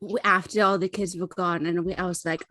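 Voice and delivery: halting, rambling tipsy confession. Acted. High character struggles to tell story.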